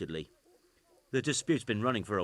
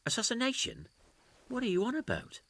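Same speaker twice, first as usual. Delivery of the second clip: incredulous; 11 semitones higher than usual. Acted. Accused man reacts in disbelief.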